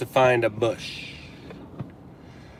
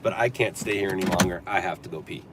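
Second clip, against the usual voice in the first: quiet pleading; 8 semitones lower, 10 dB quieter than usual. Real, not acted. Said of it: "I'm just kidding".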